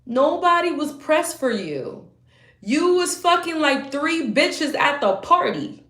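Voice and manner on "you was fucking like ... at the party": angry rant. Real, not acted. Ranting at ex directly.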